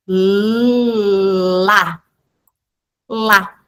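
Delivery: stretched sound-by-sound blending of lá; teacher showing phonemic synthesis; phonics blending demo. Shown as a demonstration. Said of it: "olha como que a instrução fônica vai mostrar".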